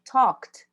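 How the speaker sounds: talked ending in a tight kt, no E. Shown as a demonstration. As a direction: clip talked off with kt. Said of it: "ele vai formar um ct".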